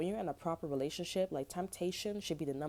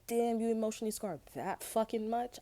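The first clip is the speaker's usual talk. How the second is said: mock shocked jab; 6 semitones higher than usual. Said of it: "I'm like".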